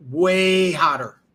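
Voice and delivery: slow, loud and drawn out; drawn-out emphasis. Real, not acted. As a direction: lean hard on both words. Hyping up the new girlfriend.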